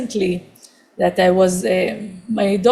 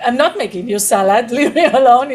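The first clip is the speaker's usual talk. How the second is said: mock irritated snap; 3 semitones higher, 4 dB louder, faster than usual. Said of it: "so reactive".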